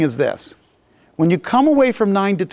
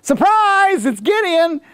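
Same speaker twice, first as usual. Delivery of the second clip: mock surprise; 10 semitones higher, slower than usual. Mock reveal of attackers.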